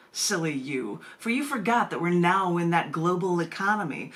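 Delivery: measured, dramatic spoken-word delivery; poem reading. Acted. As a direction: read it like a spoken-word feature, taking time on each phrase. Reads her own poem aloud.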